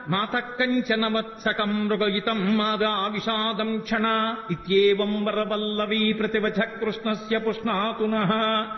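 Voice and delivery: slow measured Sanskrit recitation; slow verse recitation. Shown as a demonstration. Speaker recites Krishna's answer slowly. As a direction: recite each syllable slowly.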